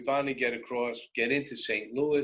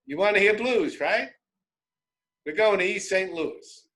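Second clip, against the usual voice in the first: higher, knowing voice for the guy; the local guy's voice, pitched up; imitating one of the guys; 8 semitones higher than usual. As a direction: tell him where we're headed. Guy explains the plan.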